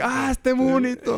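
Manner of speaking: very high, slow cooing voice; cooing girl. Retold or imitated. Imitating a girl who admires the cute dog, very high and slow. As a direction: coo like a girl charmed by a puppy.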